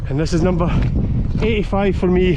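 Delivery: talking over gusting wind; pushing the voice out against the wind; in strong wind. Real, not acted. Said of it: "As you can hear, it's windy up here".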